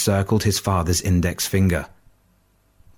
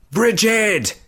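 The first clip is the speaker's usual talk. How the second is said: desperate yell. A narrator's reading. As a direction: shout her name in terror. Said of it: "he yelled".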